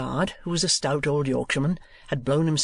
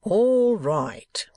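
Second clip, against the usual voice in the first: raised, drawn-out answering call; calling back; 6 semitones higher, 4 dB louder than usual. A narrator's reading. Guard answering the coachman, calling back. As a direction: holler back, stretching the first word.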